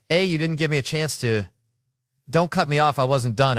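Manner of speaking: high, loud interrupted objection; indignant protest. Acted. Acted protest at being interrupted.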